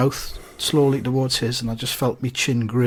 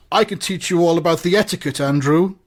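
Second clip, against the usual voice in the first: a hint of pompous official, slightly raised; lightly voiced alderman; 4 semitones higher than usual. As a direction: lightly act a superior civic dignitary. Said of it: "And the alderman says".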